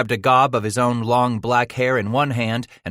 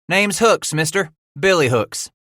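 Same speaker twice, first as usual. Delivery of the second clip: cheerful sidekick; 9 semitones higher, 5 dB louder than usual. Acted. Sidekick introduces himself.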